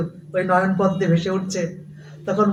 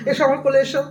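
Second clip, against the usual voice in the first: tender, tearful consoling; 6 semitones higher than usual. Acted. Mahaprabhu embracing the weeping brahmin, tender and tearful. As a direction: draw him into your arms gently.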